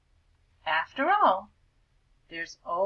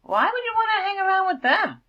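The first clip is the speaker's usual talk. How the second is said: put-on high, loud sneering cool-kid voice; snooty cool bird; 12 semitones higher, 8 dB louder than usual. Cool bird mocking the vulture, high and sneering. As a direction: sneer it down at the outsider.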